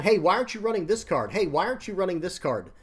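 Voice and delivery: imitating an aggressive question; confrontational quote. Commenter demanding why a card is missing, mock pushy.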